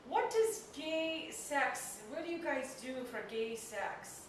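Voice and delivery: put-on slow, clumsy Indian accent; imitated Indian accent. Comic retelling cab driver's awkward question, Indian accent. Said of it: "this Indian guy who's driving".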